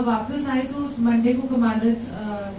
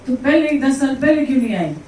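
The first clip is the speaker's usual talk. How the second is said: a slightly raised, scolding guru's question; half-playful, loving reproach from the guru; imitating the guru's tone with a touch more force; 2 semitones higher, 4 dB louder than usual. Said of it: "ये tone में।".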